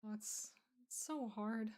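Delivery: slow, tired whisper. Real, not acted. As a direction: breathe it out wearily. Tired and yawning.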